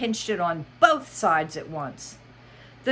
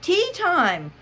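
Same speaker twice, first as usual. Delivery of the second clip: Mad Hatter voice; 9 semitones higher, 5 dB louder than usual. Acted. Hatter speaking.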